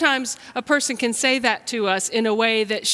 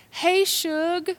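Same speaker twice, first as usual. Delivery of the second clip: mom's greeting; 8 semitones higher than usual. Retold or imitated. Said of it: "she used to call me".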